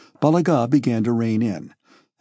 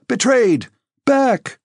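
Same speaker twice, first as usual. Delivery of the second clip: very high alarmed cry; shouting; 11 semitones higher, 4 dB louder, much slower than usual. A narrator's reading. Dólokhov warning Anatole of betrayal, shouting. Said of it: "shouted Dólokhov".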